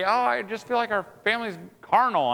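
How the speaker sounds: imitating wife. Preacher quoting his wife's complaint about the family, lightly mimicked. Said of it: "my wife will say".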